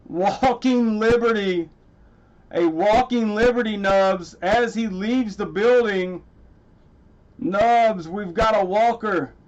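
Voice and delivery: real delight, drawing the words out; excited. Real, not acted. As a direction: savour the name of the rare coin. Identifies a Walking Liberty coin.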